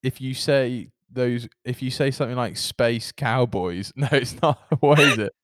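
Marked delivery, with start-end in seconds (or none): 2.6-3.9 very slow, hinting at a Scottish accent; Scottish-sounding trick phrase. Shown as a demonstration. Testing a half-remembered trick on the co-host, Scottish accent. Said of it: "you sound Scottish".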